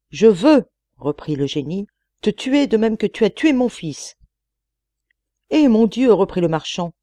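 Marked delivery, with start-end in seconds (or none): 0.1-0.6 booming loud threat; terrible genie voice. A narrator's reading. Old giant genie threatening the merchant, loud terrible voice. 2.2-4.2 booming loud threat; terrible genie voice. A narrator's reading. Old giant genie threatening the merchant, loud terrible voice. 5.5-6.1 alarmed cry. A narrator's reading. Merchant cries out.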